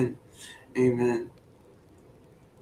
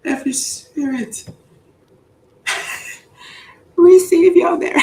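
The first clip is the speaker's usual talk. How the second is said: high, loud mock preacher yell; mock preacher shout; 5 dB louder than usual. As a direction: shout the blessing at the crowd.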